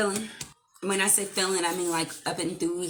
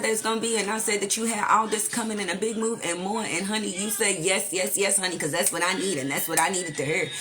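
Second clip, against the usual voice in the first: sassy diva voice; 4 semitones higher than usual. Acted. Channeling a sassy persona.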